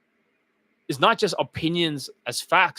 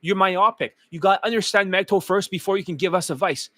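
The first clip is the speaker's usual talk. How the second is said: raised voice mimicking critics; mocking quote; 4 semitones higher than usual. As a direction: parrot their line back higher. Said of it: "they always say this".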